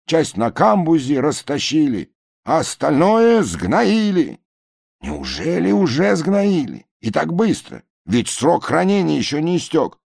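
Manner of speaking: high, plaintive complaining; lightly voiced crowd; whiny passengers. A narrator's reading. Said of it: "passengers explain to barge". (жалобные пассажиры)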